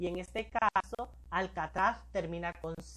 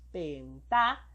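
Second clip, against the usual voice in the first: "pentá" with a held-back "pen" and louder "tá"; stress on TÁ; 5 semitones lower, 4 dB louder than usual. Shown as a demonstration. Teacher shows which syllable takes the accent, stressing "tá" in "pentá". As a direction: punch the second syllable of "pentá". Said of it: "la sílaba ta va a ir tildada".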